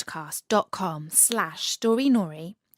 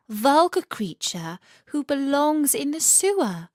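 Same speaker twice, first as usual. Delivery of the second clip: a lightly voiced haughty swan, higher; commanding swan; 5 semitones higher than usual. Swan Sadie lightly voicing her haughty scorn of the rat. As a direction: look down your beak at the rat. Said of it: "very commanding presence".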